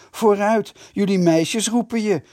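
high, loud mocking jeer. A narrator's reading. Bram mocks the Vitessers about their girls, jeering. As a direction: taunt them with scorn. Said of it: "hoonde Bram Heesink".

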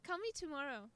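high, loud gushing American enthusiasm; hammed-up excitement, easing off at the end; mock gushing. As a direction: gush like an over-keen fake friend. Mimics Americans' fake enthusiastic plans.

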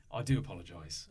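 low-pitched, apologetic character voice; lightly acted low-voiced official; odd put-on voice. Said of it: "What was this voice?".

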